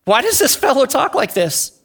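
mildly incredulous question; puzzled paralyzed man. Acted. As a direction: play a touch of disbelief at what was heard. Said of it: "the paralyzed man might have been thinking the same".

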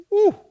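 sudden high excited whoop. Real, not acted. Pastor whooping at the verse to the congregation. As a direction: let a loud joyful woo burst out.

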